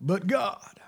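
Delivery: breathless whisper of "But God"; whispering "But God" in awe; whispered reverence. Real, not acted. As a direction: hush the words like a secret. Preacher whispers scripture.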